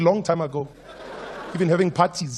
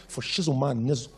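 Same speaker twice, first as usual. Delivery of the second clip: hammed-up Black American accent, dropping in pitch; Black American slang; 5 semitones lower, 5 dB quieter than usual. Comedian boasting of his lingo, mock Black American accent. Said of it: "fluent in my black American".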